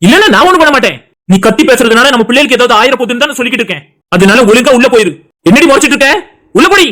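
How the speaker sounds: exasperated order to go inside; angry. Acted. Husband sending pregnant wife inside, angry. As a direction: scold her with barely held temper. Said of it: "ஏன்டா இவ்வளவு கோவப்படுற".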